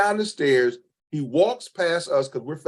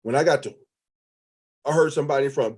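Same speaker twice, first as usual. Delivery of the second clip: usual speaking voice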